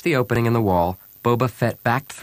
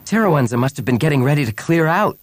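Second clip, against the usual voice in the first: higher, eager exclamation; exclaiming; 6 semitones higher, 4 dB louder than usual. A narrator's reading. Bria pointing at the priest's treasure, exclaiming. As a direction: exclaim it with raised voice. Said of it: "Bria exclaimed".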